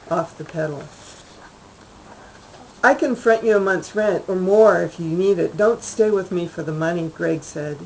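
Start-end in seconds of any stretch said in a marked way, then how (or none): 2.8-7.1 a notch higher, strained and earnest; voice jerking higher. Acted. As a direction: voice catching upward as he pleads. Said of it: "his voice jerking a notch higher".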